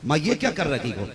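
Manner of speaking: "माँ, ये क्या कर रही हो?" asked with an edge; changed, sharper tone. Shown as a demonstration. Son snapping at his mother over the wet bed, sharper tone. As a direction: let irritation creep into the question. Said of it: "देखो, लहजा बदल गया दो बार में".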